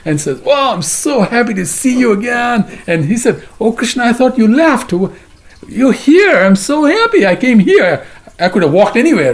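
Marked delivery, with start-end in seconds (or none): 0.4-2.7 drawn-out, higher-pitched joyful greeting; acted happy welcome. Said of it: "Krishna is very happy to see him". 3.6-9.3 high, relieved joyful outpouring; acted delight at finding a lost friend; very happy. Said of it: "and he's very happy".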